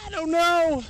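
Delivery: squeaky imitation of a friend; mock friend's reply.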